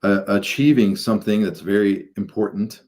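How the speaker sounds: measured, halting guidance into meditation; guided meditation. Acted. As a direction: guide listeners gradually, drawing out phrases and pausing between them.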